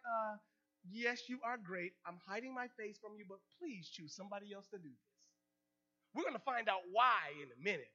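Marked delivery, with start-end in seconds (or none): 0.1-5.1 much softer and lower, fading away; mock timid plea getting softer; hiding, timid. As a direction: shrink away while begging. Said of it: "you're sitting there like".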